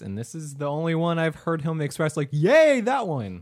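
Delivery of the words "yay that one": high, loud mock cheer dropping off; bad impersonation cheer. Co-host imitating the sound engineer's rare excitement, mock cheering. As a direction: do a poor impression of an excited friend. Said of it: "That's also a horrible impersonation".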